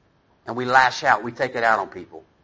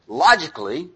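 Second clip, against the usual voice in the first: mock harsh parent; 3 dB louder than usual. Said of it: "when I'm a bad parent, what I go into is".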